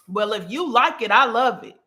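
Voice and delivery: dry mock approval with a bite; sarcastic. To a busy friend, sarcastic. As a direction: throw the shot sideways, sugary on top.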